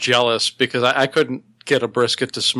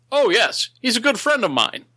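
higher, lightly voiced Batman; 10 semitones higher than usual. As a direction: play a smug Batman.

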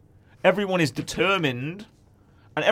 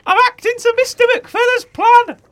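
very high, loud, breathless excitement; Penny bursting in with news, squealing excitedly; 9 dB louder than usual. Acted. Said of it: "she was saying that excitedly".

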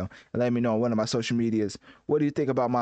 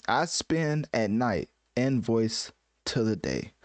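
slow, deliberate mock-grand reading of lyrics; slow dramatic lyric reading; slower than usual. Translating rap lyrics for viewers, slow mock-grand reading.

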